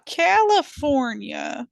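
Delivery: slow, rising disbelief; incredulous. Real, not acted. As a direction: draw it out in disbelief. Repeats place for emphasis.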